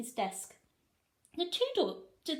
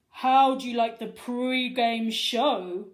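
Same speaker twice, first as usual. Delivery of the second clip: loud, slow gloating principal; devilish grin; 11 dB louder, slower than usual. A narrator's reading. Principal showing the tape, slow devilish gloat. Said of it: "with a devilish grin".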